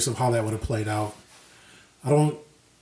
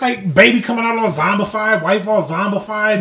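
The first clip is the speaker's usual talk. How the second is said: higher, louder exasperated complaint; 8 semitones higher, 6 dB louder than usual. Real, not acted. Exasperated retelling.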